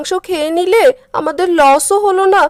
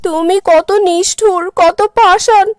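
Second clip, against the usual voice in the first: angry scolding; 3 semitones higher than usual. Acted. Wife scolds husband over food.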